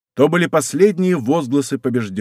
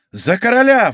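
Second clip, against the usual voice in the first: high, ringing answering shout; echoed battle cry; 7 semitones higher, 4 dB louder than usual. A narrator's reading. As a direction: echo the rallying cry. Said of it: "вторил ему Рауль".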